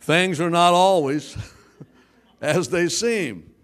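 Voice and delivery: amused, punchy restatement; laughing refrain. Shown as a demonstration. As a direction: say it again through laughter. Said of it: "Once again".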